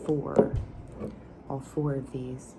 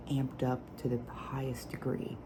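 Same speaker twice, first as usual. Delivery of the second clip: whisper with nail taps; 3 dB quieter than usual. Acted. ASMR whispered perfume review.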